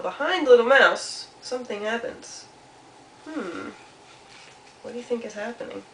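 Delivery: lilting narration, pausing for suspense; storytelling to children. A narrator's reading. Storyteller follows Mouse's secret, playful suspense. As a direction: let each little event land, with musing hums.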